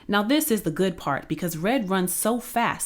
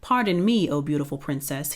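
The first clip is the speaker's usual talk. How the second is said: plain reading voice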